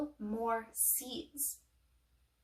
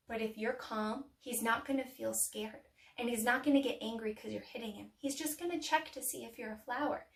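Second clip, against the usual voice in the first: calm reassurance; 3 semitones lower, 7 dB quieter than usual. Shown as a demonstration. Reassuring children about a calm bee.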